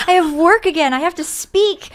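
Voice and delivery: high, whiny protest about work; mock whining. Retelling her dread of work.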